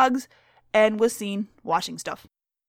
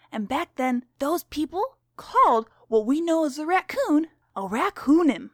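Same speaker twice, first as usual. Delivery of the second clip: lightly voiced stern schoolteacher; strict teacher; 3 semitones higher than usual. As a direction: read to the class as a stern teacher.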